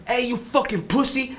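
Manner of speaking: high, taunting voice from behind; jeering high ghost voice; mocking spirit voice. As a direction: sneer it like an unseen spirit. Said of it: "then I heard".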